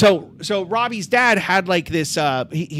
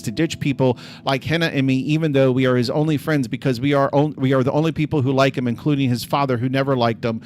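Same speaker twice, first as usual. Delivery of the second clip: commit message dictation; 5 semitones lower than usual. Real, not acted.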